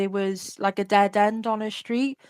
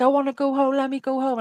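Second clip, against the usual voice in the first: mild mock crying plea, pitched higher; a child begging to go home, half-acted; retold childish pleading; 5 semitones higher, faster than usual. Child to captor, begging to go home, mildly raised. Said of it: "And I started screaming".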